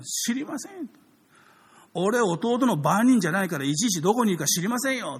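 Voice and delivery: defensive younger-brother retort; sulky Cain. Acted. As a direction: shrug it off like a guilty brother. Cain answers God evasively.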